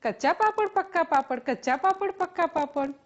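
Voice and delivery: quick alternation of "કચ્ચા" and "પક્કા"; fast tongue twister. Shown as a demonstration. Teacher urging a try with friends, rapid "કચ્ચા પાપડ, પક્કા પાપડ". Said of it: "Try with your friends".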